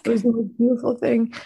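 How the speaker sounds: talking through tears, voice catching; overcome, still crying while speaking. Real, not acted. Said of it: "I can't stop crying".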